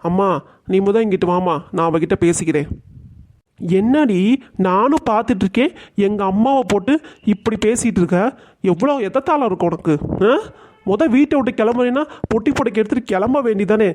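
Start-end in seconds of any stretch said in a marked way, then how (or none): 3.8-13.9 angry son. Acted. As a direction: tell her off in defence of mom. Son scolds mother-in-law angrily.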